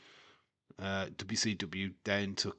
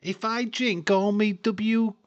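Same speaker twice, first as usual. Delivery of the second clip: put-on Liverpudlian accent; 11 semitones higher, 7 dB louder than usual. Spoofing the milk advert in a Liverpudlian accent. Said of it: "a Liverpudlian accent".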